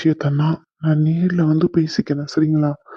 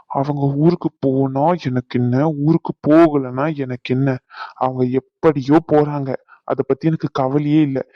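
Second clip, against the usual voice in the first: slower and more deliberate dismissal; slow, cold emphasis; 2 semitones lower than usual. Acted. Son telling mother he doesn't care about grandmother, slow and deliberate. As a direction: spell out each phrase slowly.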